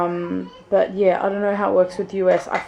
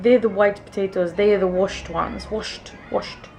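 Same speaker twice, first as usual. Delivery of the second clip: put-on thick Italian accent. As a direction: imitate an old Italian shop worker's thick accent. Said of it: "in the thickest Italian accent".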